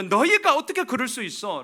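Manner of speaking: high, loud accusation; acted outraged scolding; Nehemiah. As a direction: rebuke them in full indignation. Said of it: "지금 느헤미야는요".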